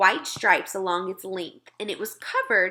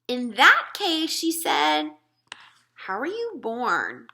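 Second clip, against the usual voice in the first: put-on higher, puzzled girl's voice; a small girl asking politely; higher child voice; little girl Sophie; 3 semitones higher, slower than usual.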